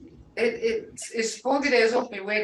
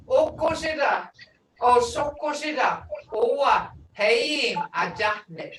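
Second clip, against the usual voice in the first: called-out phrase. Shown as a demonstration. Teacher calls out a Muskogee phrase.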